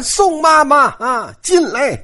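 calling out. Acted. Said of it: "晴雯喊". (抬高嗓门喊人)

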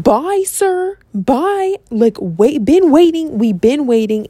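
high, mocking sing-song farewell; sarcastic goodbye. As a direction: wave them off with fake politeness. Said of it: "I'm throwing a fit".

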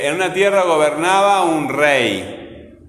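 slow reading, weight on TIE in "tierra", NA in "gobernaba", and "rey"; stressed syllables. Shown as a demonstration. Teacher reading for pupils to mark strong syllables, "tierra" and "gobernaba" stressed. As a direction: sound it out slowly, stretching "tierra", "gobernaba", "rey". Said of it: "la sílaba que suena más fuerte".

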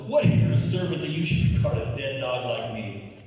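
loud start, easing off; acted protest. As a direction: exclaim it as a humbled servant. Acted protest of prostrate servant.

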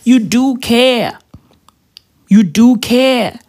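you do care, drawn out slowly with stress on do; slow, pointed insistence; emphatic retort. Retold or imitated. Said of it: "And I'm like, Bruh".

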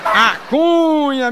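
long stretched high call of the name; drawn-out call. Acted. Comedian calling out to his friend, stretched and high. Joke opener catchphrase call.

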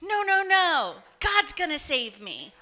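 hammed-up brush-off from a believer; confident refusal. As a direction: wave the rescuer off, acted. Voicing man waving off rescue.

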